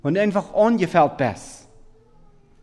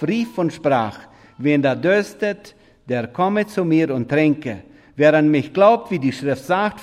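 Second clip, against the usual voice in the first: scripture reading; 4 dB louder than usual. Acted. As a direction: read the verse out to the congregation with weight. Preacher reads John 7:37-38.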